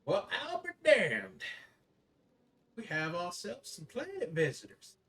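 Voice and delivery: high, loud gruff goblin voice; gruff little voice. Acted. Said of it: "a gruff little voice go".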